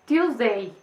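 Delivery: "Tuesday" said as a parent's misleading prompt; the wrong cue a parent might give. Retold or imitated. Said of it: "podemos decirle". ("Tuesday" como pista equivocada de un padre)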